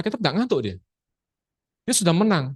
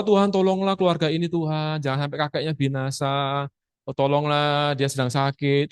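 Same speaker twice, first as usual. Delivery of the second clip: begging prayer; 2 semitones lower than usual. Shown as a demonstration. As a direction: plead like a beggar. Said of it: "Itu doa ngemis".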